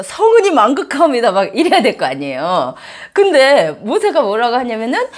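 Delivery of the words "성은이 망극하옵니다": a hint of a groveling subject, raised pitch; bowing courtier. A subject thanking the king while bowing, lightly mock-groveling. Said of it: "막 고개를 조아리면서".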